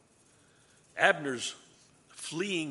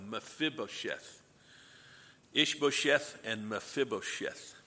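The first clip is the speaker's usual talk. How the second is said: slow careful pronunciation; slower than usual. Shown as a demonstration. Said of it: "pronounce a Hebrew name".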